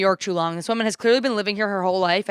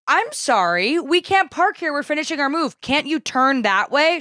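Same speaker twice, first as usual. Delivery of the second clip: pleading apology; 5 semitones higher than usual. Retold or imitated. Retelling own plea to angry stranger.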